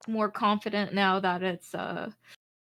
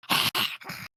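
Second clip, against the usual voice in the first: raccoon snarl. Pretend. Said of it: "John Oliver ass raccoon impression".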